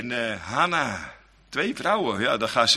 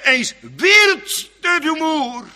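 high drawn out; 6 dB louder than usual. Acted. Repeated phrase, first take marked.

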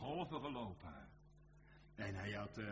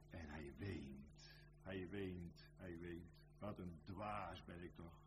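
subdued sorrow; 2 semitones lower, 4 dB quieter, slower than usual. Acted. Preacher telling of Peter weeping, subdued sorrow. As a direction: let it sink into quiet self-reproach.

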